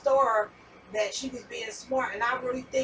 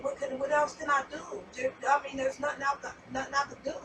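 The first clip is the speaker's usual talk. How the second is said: plain, helpless and sincere; star's sincere, helpless words as she meant them; not mean, sincere; 4 dB quieter than usual. Retold or imitated. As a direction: say it honestly, with no edge. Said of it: "she wasn't saying it to be mean".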